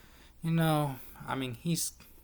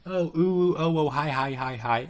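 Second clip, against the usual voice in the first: higher, louder cutesy squeals; mock e-girl squeal; 5 semitones higher, 4 dB louder than usual. New e-girl greeting Sauce, higher cutesy squeals. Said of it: "and, like".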